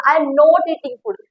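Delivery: very slow, spaced English sentence; slow dictation. Shown as a demonstration. Teacher dictating the English sentence, very slowly. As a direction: read it out word by word for the class. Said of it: "not का sentence".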